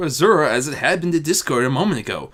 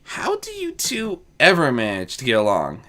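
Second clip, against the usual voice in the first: wonder. Acted. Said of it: "asked in wonder".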